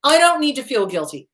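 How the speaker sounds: sweetly sarcastic brush-off to the inner voice; sarcastic dismissal. Shown as a demonstration. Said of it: "So anytime you hear shoulda".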